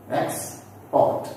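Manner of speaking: "export" split, with the weight on PORT; stress on second syllable. Shown as a demonstration. Teacher repeating a verb for learners, second-syllable stress. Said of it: "we give stress on the second part".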